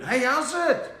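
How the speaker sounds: loud, high call-out; big hammed-up hail; shouted greeting. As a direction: holler hello to a fan. Calls out a viewer's greeting.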